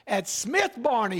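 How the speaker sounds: a hint of John Houseman's English accent. Pastor quoting an old commercial, light English accent. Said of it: "he would say in that English accent".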